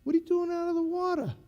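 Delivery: high, fast megaphone call; retold instructor's call. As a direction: call him out in front of the class. Instructor calling out trainee.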